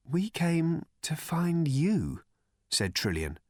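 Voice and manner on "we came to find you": slow, higher, let-down tone; openly disappointed. Acted. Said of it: "deliberately not keeping the disappointment out of her voice".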